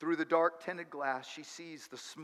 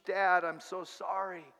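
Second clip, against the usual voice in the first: tearful apology; 2 semitones higher, 3 dB louder than usual. Acted. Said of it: "she starts her memorized speech".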